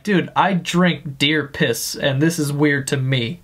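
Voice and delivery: lightly voiced redneck, low; redneck onlooker. Redneck in the background eyeing an odd shopper, lightly voiced redneck. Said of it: "Even the redneck dude in the background's looking at him like".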